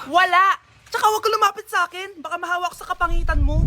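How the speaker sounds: loud, sharp no, then a fast brush-off; rude refusal. Acted. Rude girl shoos off a beggar with a loud no. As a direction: shout her away, quick and rude.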